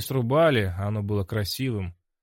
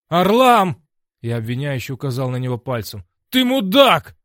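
very loud, high outraged yell; angry accusation; 4 semitones higher, 10 dB louder than usual. A narrator's reading. Hero yells angrily at Orlam, outraged.

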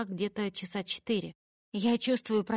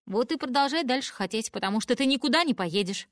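stern refusal; 4 semitones higher, 3 dB louder than usual. Acted. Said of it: "говорит папа".

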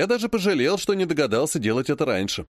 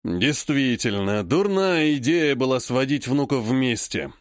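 heavy weary regret; slower than usual. Acted. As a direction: say it slowly, regretting.

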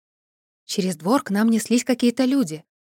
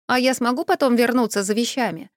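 ordinary delivery, nothing marked

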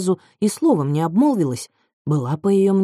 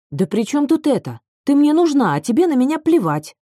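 exasperated outburst; 8 semitones higher, 4 dB louder than usual. A narrator's reading. Narrator voices Lila's angry outburst.

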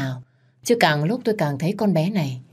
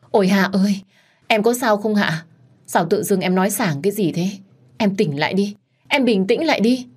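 fake concern; 3 semitones higher than usual. Lam acts worried to outplay Hạ, fake concern. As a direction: ham up the caring sister. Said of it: "chị diễn với mày".

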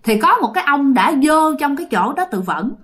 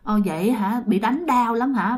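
acted coaxing concern; friendly sympathy; 4 dB quieter than usual. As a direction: gently win the spirit over. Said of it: "giống như muốn làm thân".

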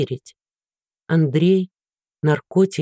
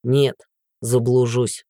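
smirking; 5 semitones lower, slower than usual. Acted. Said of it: "усмехнулся охранник".

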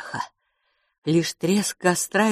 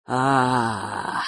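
low creature chuckle; 5 semitones lower than usual. Acted. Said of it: "усмехнулся король Леон".

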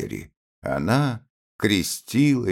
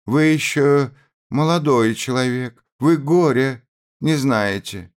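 put-on higher and louder, reproaching a young officer; hateful reproach; 8 semitones higher, 5 dB louder than usual. A narrator's reading. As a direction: let the hatred rise in every word. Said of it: "отдаваясь чувству ненависти".

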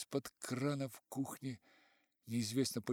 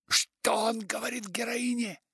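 character voice; 11 semitones higher, 7 dB louder than usual. Acted.

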